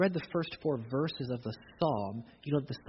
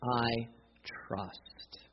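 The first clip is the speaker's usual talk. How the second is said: whispered, much softer; hushed; 4 semitones lower, 7 dB quieter than usual. Acted. Preacher whispering the psalmist's words, hushed. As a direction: breathe the word trust. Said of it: "Trust is probably one of the biggest words".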